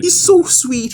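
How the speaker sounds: high, delighted squeal over the droid; gushing squeal. Real, not acted. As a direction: squeal it like you adore him.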